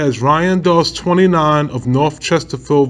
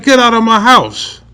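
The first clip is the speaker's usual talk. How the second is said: retold command; 7 semitones higher, 4 dB louder than usual. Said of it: "I said".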